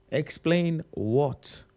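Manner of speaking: sarcastic slow repeat; slow drawn-out. Shown as a demonstration. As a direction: Explain what drawn out slowly, rising.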